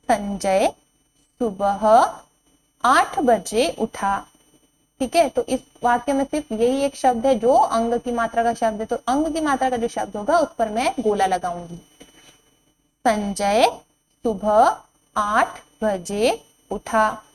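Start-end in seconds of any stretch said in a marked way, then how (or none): 0.1-4.2 slow reading. Shown as a demonstration. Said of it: "slow sentence reading". 13.0-17.2 slow reading. Shown as a demonstration. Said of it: "slow sentence reading".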